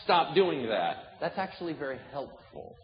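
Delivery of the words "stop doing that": slow, firm, deliberate rebuke; firm correction. Retold or imitated. Someone redirecting us, slow and firm correction. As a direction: lay down the line, slowly. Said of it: "redirect us and say".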